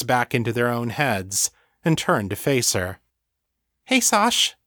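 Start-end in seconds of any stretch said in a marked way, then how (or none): 3.8-4.6 high, cheery greeting; light, friendly hello pitched way up; smiling. A narrator's reading. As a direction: greet a friend with an audible smile.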